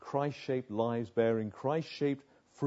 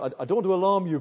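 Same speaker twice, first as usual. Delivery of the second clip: quoting Ken; 5 semitones higher, 7 dB louder, much faster than usual. Retold or imitated. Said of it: "I can't do the accent".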